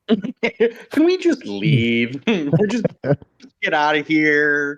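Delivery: laughing. Real, not acted. Laughing while suggesting to flee.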